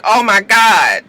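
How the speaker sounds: slow, loud worried oh my God; mock alarmed; worried gasp. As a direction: voice the friends' dread. Friends' worried look voiced.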